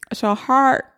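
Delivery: slow jawbreaker-in-mouth voice; Jawbreaker Julie. Acted. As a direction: drag it out slowly round a jawbreaker. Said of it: "hit me with what that sounds like".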